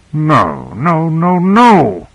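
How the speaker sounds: drawn-out cry of dismay, climbing high. A narrator's reading. Carter seeing the ship has stopped, crying out in dismay. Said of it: "he cried".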